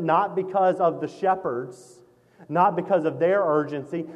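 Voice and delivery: ordinary talk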